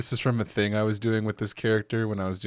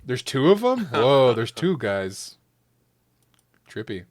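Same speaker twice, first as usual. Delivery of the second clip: mock amazement. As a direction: play the gullible fan, wowed.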